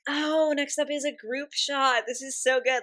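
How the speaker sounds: high, slow, gushing squeal; bursting with excitement; excited squeal. Real, not acted. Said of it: "getting overly excited again".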